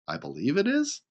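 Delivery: mock the hedge with a doubting lift; mock doubtful echo. Shown as a demonstration. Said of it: "Instead of saying".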